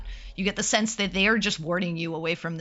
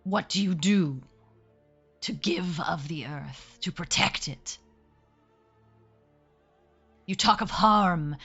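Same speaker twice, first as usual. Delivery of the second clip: slow, lightly growled wolf voice; 2 semitones higher, much slower than usual. Acted. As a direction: speak slowly as a wary wolf. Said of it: "growls and says".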